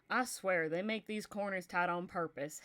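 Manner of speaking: a hint of a gruff Southern old man complaining about tight corners; Southern accent. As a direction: grumble it like a Southern old-timer, just a hint. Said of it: "Lo-, low Southern in my".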